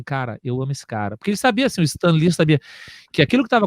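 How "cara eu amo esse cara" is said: soft confession. Retold or imitated. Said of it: "o John falou assim".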